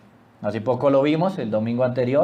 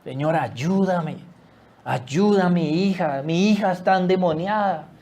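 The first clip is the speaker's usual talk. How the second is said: desperate plea. Acted. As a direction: beg for help without shouting. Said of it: "el desespero de esta mujer que grita". (súplica desesperada pero contenida)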